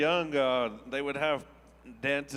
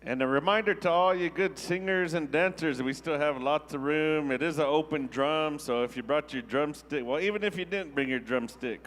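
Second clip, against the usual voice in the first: inviting announcer voice to the crowd; powwow emcee. Real, not acted. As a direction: call everyone out like an emcee. Announcing to singers and dancers.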